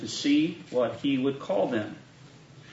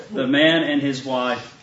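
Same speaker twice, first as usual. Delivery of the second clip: slow, words through a laugh. Real, not acted. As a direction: keep laughing as you read. Still laughing after the joke.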